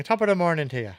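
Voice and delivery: stereotypical Irish morning greeting; mock Irish accent. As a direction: imitate an Irish accent, playfully. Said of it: "couldn't get rid of an Irish accent".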